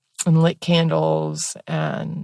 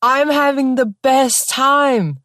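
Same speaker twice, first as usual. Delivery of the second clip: giddy laughing; 9 semitones higher than usual. Retold or imitated. Laughing at herself in the tub, giddy and high. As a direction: gush it out high while cracking up. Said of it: "I'm laughing so hard in this tub".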